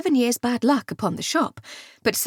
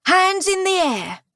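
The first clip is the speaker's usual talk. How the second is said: robber's command; 10 semitones higher than usual. A narrator's reading. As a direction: bark it at the hostages. Thief orders the ladies.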